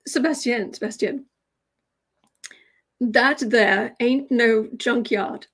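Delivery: slow, lightly mocked West Virginia drawl; a classmate teasingly copying the West Virginia junkyard man; West Virginia accent. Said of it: "in this exact accent".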